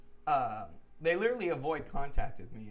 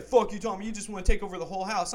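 retold angry accusation; 4 semitones higher, 8 dB louder, faster than usual. Roommate retold accusing him.

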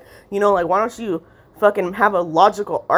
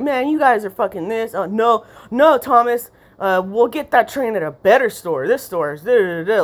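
ranting mother; 4 semitones higher than usual. Retold or imitated. Voicing mother ranting with kid.

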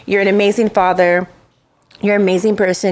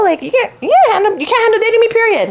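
building rant at the absent date; heated emphasis; 11 semitones higher than usual. Acted. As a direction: drive it home, getting fired up. Telling off the ex.

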